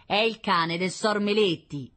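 grumbling butcher. Acted. Butcher speaks to wife.

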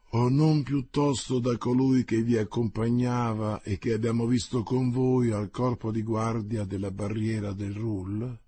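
insulting courtesy. Acted. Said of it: "con la sua insultante cortesia".

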